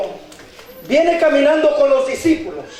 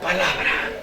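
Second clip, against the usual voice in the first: low, soft single-word drop; hushed; 6 semitones lower, 7 dB quieter than usual. Shown as a demonstration. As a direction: let the word fall into near silence. Preacher drops voice on silence. (voz baja y solemne)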